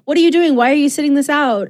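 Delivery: exasperated battle cry to the gods; urging the gods. Retold or imitated. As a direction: rouse the idle gods to fight. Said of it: "And she's like".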